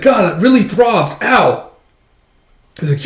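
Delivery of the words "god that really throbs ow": high, loud pained complaint; mock pain. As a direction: moan over the throbbing hand. Character's hand hurts after punch.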